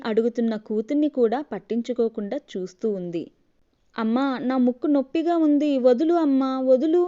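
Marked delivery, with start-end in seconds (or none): 3.9-7.0 put-on a child's pleading cry, louder. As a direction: let go, mother, calling out in pain. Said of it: "అరుస్తున్న పాప గొంతు". (బాధతో అరుస్తున్న పాప)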